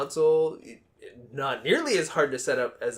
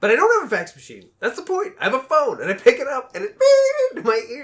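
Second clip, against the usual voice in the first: exasperated rant; 11 semitones higher, 9 dB louder than usual. Real, not acted. Exasperated rant about spam faxes.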